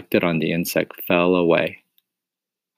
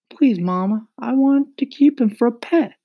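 pleading. Acted. Boy begging mother.

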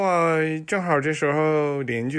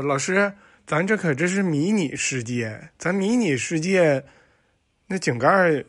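student to teacher. Acted. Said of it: "小明说".

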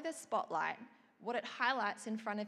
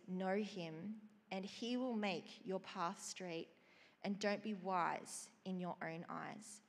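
slow, measured reading of scripture; unhurried devotional reading. Acted. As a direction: read it like a blessing. Reads Proverbs passage slowly.

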